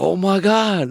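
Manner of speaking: high, loud, hammed-up Asian-Puerto Rican mash-up accent; terrible Asian-Puerto Rican accent. Imitating the local gang amazed at a bar fight, terrible Asian-Puerto Rican accent. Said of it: "that was a terrible accent".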